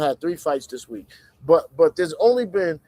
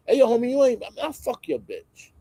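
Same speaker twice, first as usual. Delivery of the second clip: how men talk; 6 semitones higher than usual. Retold or imitated. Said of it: "for performance".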